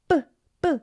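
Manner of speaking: "뿌" with a tight unaspirated p; tense p. Shown as a demonstration. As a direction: pop "뿌" with no breath. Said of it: "쌍비읍 발음으로 합니다".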